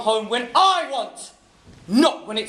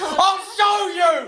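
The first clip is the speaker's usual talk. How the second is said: furious threat; 7 semitones higher, much slower than usual. Acted. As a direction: bellow the threat slowly. Husband about to hit.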